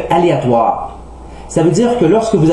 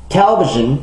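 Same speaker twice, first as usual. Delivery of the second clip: "Television" stressed on TEL, the first syllable; exceptional stress. Shown as a demonstration. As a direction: hit the start of "Television". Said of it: "est une exception importante". (« Television » accentué sur la première syllabe)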